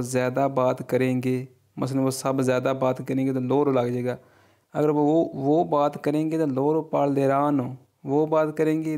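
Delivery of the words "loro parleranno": very slow, each Italian word laid out clearly; slow model reading. Shown as a demonstration. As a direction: read it slowly for learners to copy. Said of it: "teacher models Italian phrase". (धीरे-धीरे साफ़ उच्चारण)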